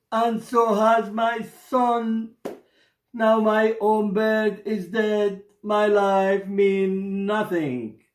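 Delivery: a touch of tearful grief; mild weeping. Acted. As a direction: mourn his dead bird, trailing off. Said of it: "He wept".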